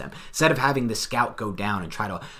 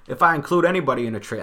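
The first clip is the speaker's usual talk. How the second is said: bad Boston accent, higher and louder; Dave Gettleman accent; 6 semitones higher, 5 dB louder, faster than usual. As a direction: attempt a hammed-up Boston accent. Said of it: "I'm so bad at the Gelman accent".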